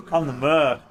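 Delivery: put-on Cockney accent. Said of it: "a very specific Cockney accent".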